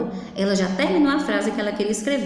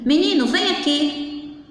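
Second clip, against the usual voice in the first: put-on slow, higher-pitched call to a boy; admonishing call; 5 semitones higher than usual. Shown as a demonstration. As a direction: call the child over as a warning. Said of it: "alegria ou advertência. Se eu digo assim".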